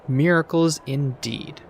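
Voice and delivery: slow, scornful snort at the notion of miracles; scoffing artificer. Acted. The artificer scoffs at the visitor, slow and dismissive. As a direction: scoff it away slowly. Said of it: "The artificer snorted".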